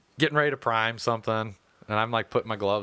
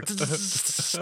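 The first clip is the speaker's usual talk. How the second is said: imitated frying circuits; 5 semitones higher, 4 dB quieter than usual. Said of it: "they're frying".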